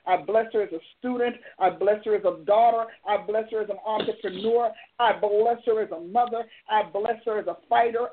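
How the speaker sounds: steady, earnest prayer cadence; fervent prayer. Acted. Pastor praying a blessing over caller Samantha, earnest prayer.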